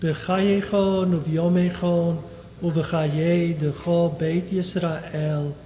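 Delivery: steady liturgical chanting of Kaddish; prayer recitation. Acted. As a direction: recite the Aramaic prayer evenly.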